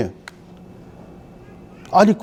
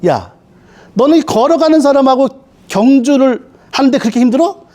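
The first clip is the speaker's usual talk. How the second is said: mock divine telling-off, pitched higher; scolding; 4 semitones higher than usual. Preacher voices God scolding Jeremiah, higher-pitched mock reprimand. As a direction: scold with pointed rhetorical questions, lightly acted. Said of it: "하나님이 오히려 혼내죠".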